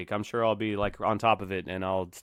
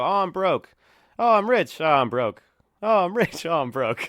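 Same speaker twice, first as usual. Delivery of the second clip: raised, louder mock cries flipping between broke and rich; 8 semitones higher, 7 dB louder than usual. Investor riding crypto swings, in mock cries. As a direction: ham up the wild swings of a gambler.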